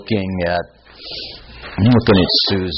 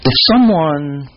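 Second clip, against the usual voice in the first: facetious question; 4 semitones higher than usual. Retold or imitated. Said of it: "sort of facetiously".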